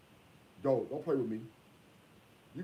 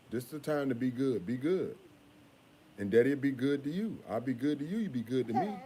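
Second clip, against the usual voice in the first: soft coaxing; 3 dB quieter than usual. Real, not acted. Father soothing his crying child.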